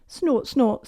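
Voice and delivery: lightly voiced piglet snorts; a touch of piggy glee; happy snort. A narrator's reading. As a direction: snort happily like a little pig. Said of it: "said George happily".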